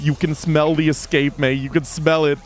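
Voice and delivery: coaxing, rising tempter's voice; tempting. Acted. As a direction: dangle the escape in front of her. GM tempting player with brownie.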